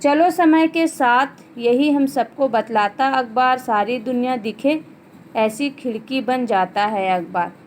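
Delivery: teacher's deliberate poem reading; poem recitation. Acted. Reads the poem aloud.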